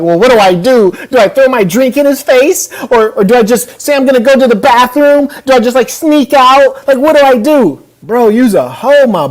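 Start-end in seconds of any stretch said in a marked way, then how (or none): 0.0-7.8 a touch higher, fretful mock; mock dithering Adam. Host mocking Adam's nervous inner dilemma, lightly higher. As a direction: fret like a nervous man planning escape. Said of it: "he's over here like".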